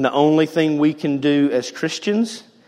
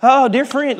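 higher, mock-sympathetic sigh; gently mocking a pious friend; mock pitying voice; 8 semitones higher, 5 dB louder, slower than usual. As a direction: play a syrupy comforter, lightly. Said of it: "people will take that passage and they'll say".

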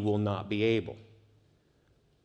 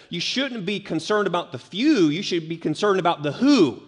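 higher voice, landing hard on "few" then "who"; stress on FEW, WHO; 4 semitones higher, 4 dB louder than usual. Shown as a demonstration. Jesus correcting the questioner, stressing "few" against "who". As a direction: contrast "few" against "who", both punched. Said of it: "put the emphasis".

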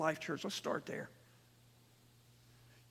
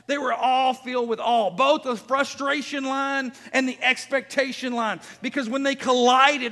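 raised, emphatic scripture proclamation; forceful preaching; 4 semitones higher, 6 dB louder than usual. Real, not acted. Preacher tells of crowds filled with awe, forceful preaching. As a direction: drive the Bible story out to the room.

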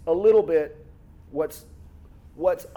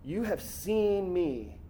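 soft repeated reading; 5 semitones lower, 6 dB quieter than usual. Shown as a demonstration. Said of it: "notice what Jesus says".

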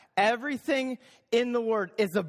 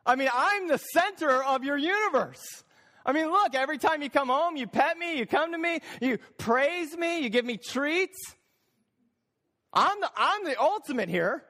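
self-important cat; 5 semitones higher than usual. Acted. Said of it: "So the cat goes".

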